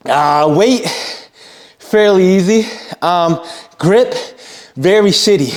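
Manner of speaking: panting between words after a heavy set; out of breath. Real, not acted. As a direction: talk while catching your breath. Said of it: "Sorry, I'm out of breath".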